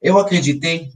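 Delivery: ordinary delivery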